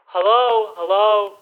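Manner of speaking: put-on Austrian action hero accent; Schwarzenegger voice. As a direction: Terminator style Arnold voice. Schwarzenegger impression throughout.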